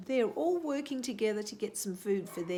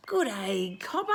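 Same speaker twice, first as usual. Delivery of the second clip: rat calling out; 6 dB louder than usual. Acted. White-tailed rat calls out a greeting to Cobber. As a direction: call up cheerfully from the tree. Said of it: "called the white-tailed rat".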